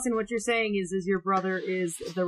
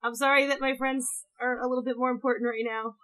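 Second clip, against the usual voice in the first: high loud laugh breaking in; bursting into laughter; 4 semitones higher, 9 dB louder than usual. Real, not acted. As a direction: crack up mid-apology. Teasing mom, bursts laughing.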